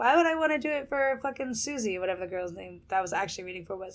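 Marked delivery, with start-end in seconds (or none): 0.0-2.0 put-on feigned, clueless, innocent playing-dumb tone. Retelling a reply to a casting director's request: imitating playing dumb. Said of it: "I tried to play stupid".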